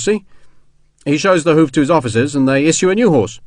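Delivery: lightly voiced common soldier; chatty soldier Sharp. Soldier explaining army tricks to stop her crying, lightly chatty. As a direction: keep up casual, reassuring army chatter.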